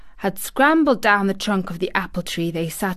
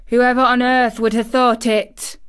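louder, amazed broad Yorkshire; astonished Yorkshire; 4 semitones higher, 5 dB louder than usual. Acted. Housekeeper alone in corridor, amazed Yorkshire. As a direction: marvel aloud in broad Yorkshire. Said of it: "speaking rather broad Yorkshire herself".

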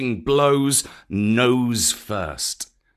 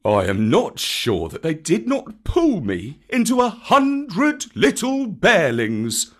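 grave; 6 semitones higher, 4 dB louder than usual. A narrator's reading. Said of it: "said Baloo gravely".

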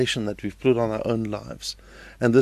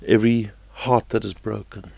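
prayer. Real, not acted. Leads a prayer.

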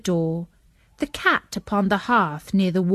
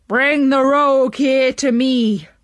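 loud, higher commanding call; judge calling out; 5 semitones higher, 5 dB louder than usual. A narrator's reading. Robber mimics the judge calling out, louder and higher. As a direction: bark it as the judge on the roof. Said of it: "who called out".

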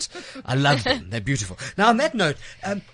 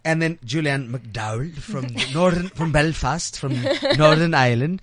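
bad Irish accent; 2 semitones lower than usual. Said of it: "Was that your Irish accent?".

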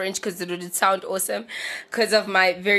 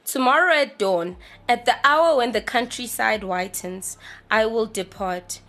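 poem reading. Acted. Reads the poem aloud.

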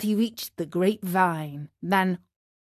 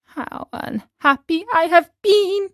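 a lightly voiced puppet boy, higher and sorry for himself; Pinocchio's voice, remorseful; 8 semitones higher, 4 dB louder than usual. A narrator's reading. Pinocchio lamenting to himself on the road, a lightly raised boyish voice. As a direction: speak as the remorseful wooden boy.

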